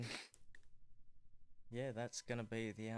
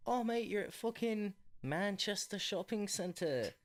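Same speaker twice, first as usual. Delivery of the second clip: Simon Cowell; 8 semitones higher, 5 dB louder than usual. Acted. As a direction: put on a wobbly regional English accent. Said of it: "I keep losing the accent".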